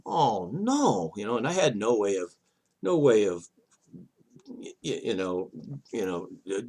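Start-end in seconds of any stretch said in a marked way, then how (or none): 0.0-1.1 mild alarmed cry; lightly voiced panic heading for trees; retold oh no.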